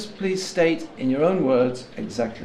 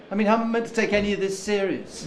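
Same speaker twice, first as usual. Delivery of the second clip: high, rushed exasperation; exasperated challenge; 8 semitones higher, faster than usual. Acted. Sergeant doubting the witness's changed story, exasperated. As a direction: challenge them in fast, high-pitched disbelief.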